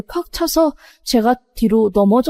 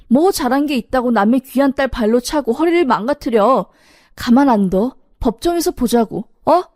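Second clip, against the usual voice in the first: retold angry scolding; 2 semitones higher than usual. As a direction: tell the in-law off, mildly raised. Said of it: "막 소리를 질렀어요".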